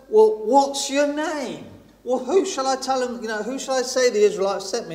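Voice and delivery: Moses asking. Retold or imitated. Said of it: "Moses asks God, he says".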